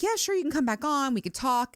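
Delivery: bright eager acceptance; mock eager yes. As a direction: gush a naive yes. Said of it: "I was like".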